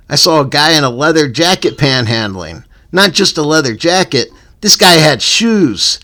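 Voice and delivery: punchy, animated read-aloud rant; comic rant reading. Acted. Host reads a written rant about panhandlers, comic rant. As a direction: read it out like a stand-up bit.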